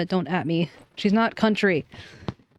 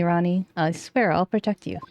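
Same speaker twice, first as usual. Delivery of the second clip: ordinary talk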